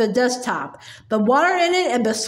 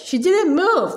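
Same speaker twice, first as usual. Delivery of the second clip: higher, raised voice of the class; crying out; 4 semitones higher, slower than usual. Acted. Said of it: "they cried out".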